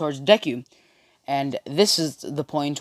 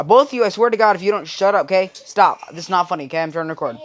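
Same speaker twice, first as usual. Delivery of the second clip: loud, higher-pitched exasperated telling-off; real scolding; 4 semitones higher, 5 dB louder, faster than usual. Real, not acted. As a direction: scold them to shut up, easing off by the end. Scolds people interrupting the recording.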